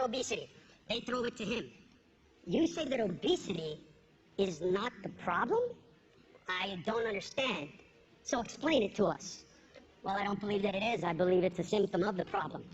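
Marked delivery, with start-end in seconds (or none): 2.5-5.6 news anchor. Acted. Comic voicing the TV news anchor. 6.5-12.6 obese TV guest. Acted. Comic voicing the obese guest.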